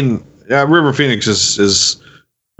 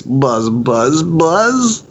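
bee voice; 2 semitones higher, much slower than usual. Pretend. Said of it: "flies don't make that sound".

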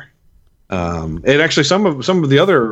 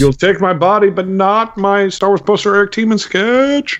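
mock defiant vow; 9 semitones higher than usual. Defiant vow over his prized collectibles.

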